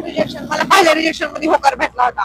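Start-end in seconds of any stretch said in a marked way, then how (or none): 0.0-0.6 loud fast blurt. Real, not acted. Wife arguing with husband in the rain, quick loud blurt. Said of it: "मी काय म्हणते".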